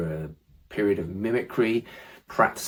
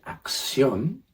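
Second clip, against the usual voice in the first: "acción" slowly, emphasis on the final ón; stress on final O; 6 semitones higher than usual. Shown as a demonstration. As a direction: lean on the last syllable of "acción". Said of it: "little extra emphasis".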